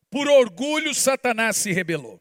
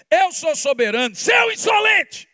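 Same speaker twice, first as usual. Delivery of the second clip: high, loud shouted rebuke; God scolding; 7 semitones higher, 4 dB louder than usual. Acted. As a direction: yell it down like an angry God. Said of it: "Imagina Deus olhando pra você e falar assim". (Deus bronqueando, aos gritos)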